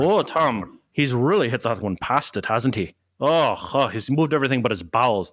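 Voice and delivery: a light mock Irish golf commentator; lightly voiced Irish commentator, gushing; Faraday impression. Co-host mimics the golf announcer, mild Irish lilt. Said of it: "There's your Faraday impression".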